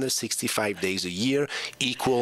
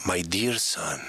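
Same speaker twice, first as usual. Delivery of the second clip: lightly voiced mother, lower pitch; mother's letter voice; 5 semitones lower, slower than usual. Son reading his mother's letter aloud, lightly put-on voice. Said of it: "she was doing the voice like this".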